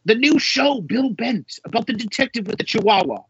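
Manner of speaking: mock in-laws excited. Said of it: "they were like".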